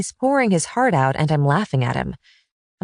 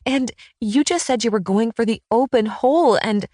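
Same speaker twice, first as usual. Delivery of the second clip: laughing; 6 semitones higher than usual. A narrator's reading. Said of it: "I clutch my stomach, doubling over".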